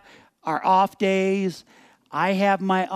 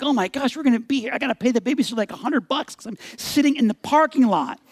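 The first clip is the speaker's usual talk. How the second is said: higher-pitched exasperated rant; frustrated; 5 semitones higher, faster than usual. Retold or imitated. Driver stuck in the parking lot grumbling to himself, frustrated. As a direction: complain in rising exasperation. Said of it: "I'm getting frustrated".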